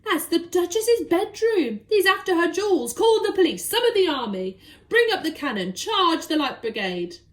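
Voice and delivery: rally the troops in a panic; crying out. Acted. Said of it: "cried the Duke".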